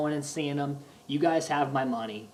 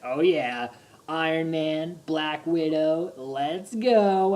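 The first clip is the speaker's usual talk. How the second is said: building retold hype; 2 semitones higher, 5 dB louder, much slower than usual. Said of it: "screaming at the top of my lungs".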